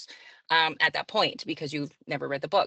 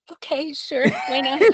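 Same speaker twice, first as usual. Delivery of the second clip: higher, laughing mock acceptance; laughing shrug; 8 semitones higher, 5 dB louder than usual. Wife shrugging off her aunt's praise, laughing and higher. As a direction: brush off the compliment with a laugh. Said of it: "and I'm like".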